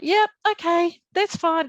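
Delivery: high, loud, carefree okay; breezy agreement. Retold or imitated. Patient agreeing to have her liver operated on, breezily unconcerned. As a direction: wave it off in a lifted, easygoing voice.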